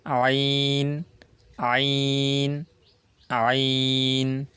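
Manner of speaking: ain squeezed from the middle of the throat; throaty ain. Shown as a demonstration. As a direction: tighten mid-throat and voice ain. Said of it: "I say it once again".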